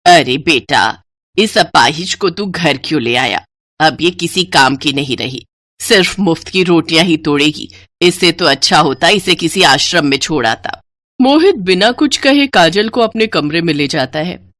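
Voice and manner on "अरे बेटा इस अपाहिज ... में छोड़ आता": lower, contemptuous voice; cruel mother-in-law. Acted. Mother-in-law tells son to abandon the crippled bride, lower and cold. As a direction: dismiss her coldly.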